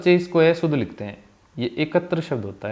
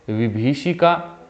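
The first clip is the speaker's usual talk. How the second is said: slow dictation; much slower than usual. Shown as a demonstration. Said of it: "ये विभीषिका".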